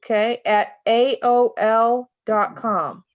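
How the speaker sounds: slow and clear, letter by letter; dictating. Shown as a demonstration. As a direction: spell it out slowly for someone writing. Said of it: "write this down".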